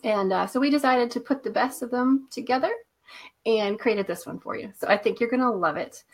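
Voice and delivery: stuffy nose from a cold; blocked-up nose, nasal tone. Real, not acted. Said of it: "excuse my nasally voice today".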